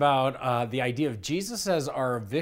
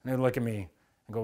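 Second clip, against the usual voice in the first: normal talking voice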